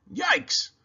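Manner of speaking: high, sudden yelp of alarm; a squeaky cry of surprise; startled yikes. A narrator's reading. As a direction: jump at the time. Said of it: "he said".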